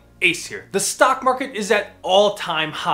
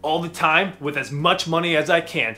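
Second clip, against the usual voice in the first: louder hyped bro voice, cocky and brash; pumped-up bro investor; 3 dB louder than usual. Acted. Host playing a cocky aggressive investor, loud bro. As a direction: sell it like a swaggering trader. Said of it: "the aggressive investor".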